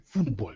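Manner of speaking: "football" dropped low and soft, with a long "oo"; put-on foreign pronunciation. Shown as a demonstration. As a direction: say "football" as "FOOD-bol", hushed and low. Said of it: "you have to say it that way".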